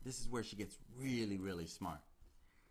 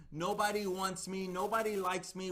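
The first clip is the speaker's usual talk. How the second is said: self-pitying victim; 4 semitones higher than usual. Retold or imitated. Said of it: "playing the victim".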